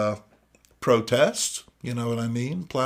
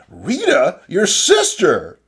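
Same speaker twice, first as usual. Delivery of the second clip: calling out; 7 semitones higher, 10 dB louder, slower than usual. Acted. Comic dialogue, someone calls out.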